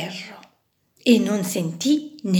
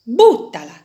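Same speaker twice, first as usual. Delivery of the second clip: dismissive order; 2 semitones higher, 6 dB louder than usual. Acted. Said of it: "replicò un altro".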